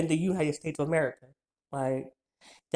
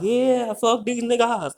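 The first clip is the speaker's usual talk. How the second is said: higher, louder drawn-out "yeah"; defiant jailhouse holler; 6 semitones higher, 4 dB louder, slower than usual. Retold or imitated. Speaker acts out talking from the jailhouse, defiant holler. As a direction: imitate yourself hollering defiance. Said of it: "I be talking like".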